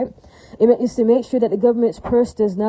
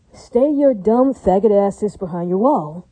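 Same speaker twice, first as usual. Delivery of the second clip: slow, deliberately calm warning; mock calm; slower than usual. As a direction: spell it out slowly, faking calm. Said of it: "this is me saying calmly".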